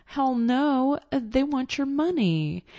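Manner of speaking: high, punchy dismissal; high-pitched rant against the store; emphatic hell no. Real, not acted. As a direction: scoff at the very idea. Ranting about Visa-only policy.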